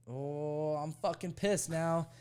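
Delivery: mock boiling-over frustration; retold rising anger. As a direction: reenact being fed up, stretched out. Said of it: "getting more and more mad".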